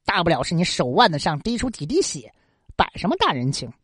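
cold sneer. Acted. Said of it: "文生冷笑一声".

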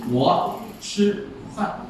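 slow, whispered 我吃饭 with shifting stress; stress demo. Shown as a demonstration. Teacher showing students where the stress falls, slowly. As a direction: lay out 我吃饭 slowly, word by word. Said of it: "重音给你放在不同的地方".

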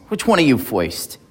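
put-on a light New York accent on foist for first; mild New York tough-guy quote. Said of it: "Bert Lahr with his great New York accent".

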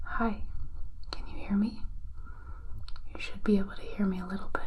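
gentle hushed voice; soft-spoken voice. Shown as a demonstration. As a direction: speak softly and close. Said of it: "I'm going to talk at a soft-spoken voice".

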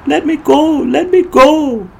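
high, loud mock yell, slowing at the end; high shrieking imitation of a road-rage driver; imitated yelling. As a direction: yell it like the furious driver, stretching let me go. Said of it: "He was yelling at me".

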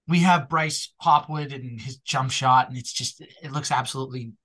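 thick Boston accent slipping out. Real, not acted. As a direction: let the Boston vowels show. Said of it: "my Boston accent came out there".

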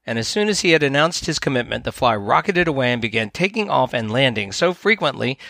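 gentle storyteller reading a fable; story narration. A narrator's reading. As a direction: read it like a bedtime fable. Reads a fable aloud.

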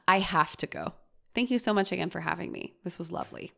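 polite, controlled exit at an everyday volume; kind early interruption. Acted. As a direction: cut in kindly, then thank them quickly. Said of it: "which is kinder".

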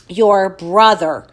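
slow, trembling start; shaking voice. Acted. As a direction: hold back tears. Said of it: "her voice shaking".

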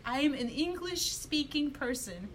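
put-on slow, prim kid voice; mock a stubborn boy; imitating son. Her son refusing Russian, slow and prim. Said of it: "he was like".

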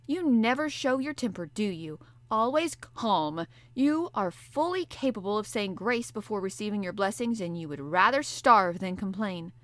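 the harpooner teasing calm Conseil; impatient harpooner. Acted. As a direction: needle him for his patience. Ned Land voiced.

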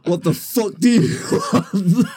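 high, hammed-up bouncer threat; mock bouncer snarl. Mock bouncer yelling at a drunk lad. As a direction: squeak out the bouncer's threat, laughing. Bouncer voiced in retold story.

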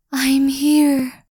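urgent Spirit. Acted.

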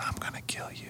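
creepy unvoiced whisper. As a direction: whisper the threat eerily.

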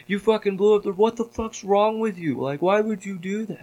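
high-pitched mock indignation; retold freak-out. Angry players demanding to know why he did it, mock outrage. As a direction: imitate players losing their minds. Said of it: "everybody in the server lost their fucking minds".

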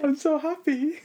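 mock Austrian accent. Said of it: "didn't say it with an Austrian accent".

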